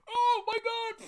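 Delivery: high, slow mock panic cry; shrieked oh my God; panicked exclamation. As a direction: freak out at the stench. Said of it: "People are walking around going".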